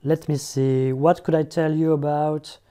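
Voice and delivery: slow stalling English. Shown as a demonstration. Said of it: "ça peut être des choses du style".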